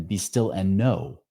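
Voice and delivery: very slow, drawn-out meditative phrase; slow mantra. Shown as a demonstration. Showing listeners his breathing mantra, slow and calm. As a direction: let each word hang like a breath. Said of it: "Then I would end on be".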